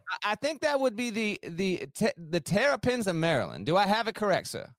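lightly faked Southern accent; courteous mock Southern gentleman's accent. Contestant giving his last trivia answer, fake Southern accent. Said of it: "in a fake Southern accent".

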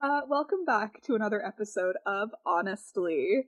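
booming radio host intro; shock jock radio host. Acted. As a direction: announce it like a morning DJ. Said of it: "I was really leaning into my, like, shock jock voice".

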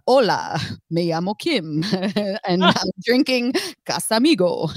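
put-on Spanish accent, like an old Spanish man; hammed-up old Spanish man accent; mock Spanish accent of an old man. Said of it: "I sound like, um, a old Spanish man".

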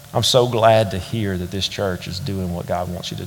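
a hint of a wise old man; elderly gentleman. Old man speaks quietly to him.

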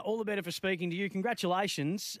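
normal talking voice

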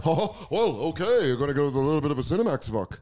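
fast, bouncy put-on genie voice; Genie impression. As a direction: rattle it off like a zany genie.

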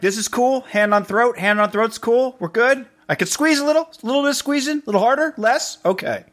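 very high fretful play-by-play; high nervous narration. Retold or imitated. Acted nervous partner check-in.

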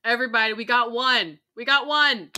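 loud, punchy celebration; real excited outburst; excited amazement. Real, not acted. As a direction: announce it loudly to everybody, thrilled. Excited reaction to casting reveal.

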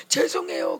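"죄송해요" breathed out weepily, half voiceless; tearful apology. Retold or imitated. Young person crying to God, whispering "죄송해요" tearfully. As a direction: sob "죄송해요" through tears. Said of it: "울고".

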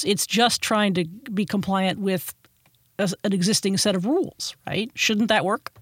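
lightly played innocent puzzlement; naive questioner. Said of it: "naive, innocent question would be".

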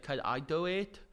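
put-on little kid voice. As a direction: do a creepy little kid asking. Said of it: "little kid voice where she's like".

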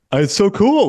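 high, gushing mock interviewer; poor impression of an excited TV host; Gayle King. Host imitating an interviewer's reaction, high and gushing. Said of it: "I can't do a Gayle King impression".

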